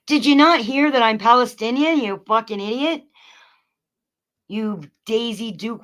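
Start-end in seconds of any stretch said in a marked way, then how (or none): 0.1-3.0 louder, indignant question; angry demand. Real, not acted. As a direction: demand an answer in outrage. Angry at trolls in chat.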